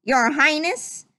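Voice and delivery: lightly quacked address; Donald Duck voice. Acted. Butler Donald addresses the prince in duck voice. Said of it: "said Donald".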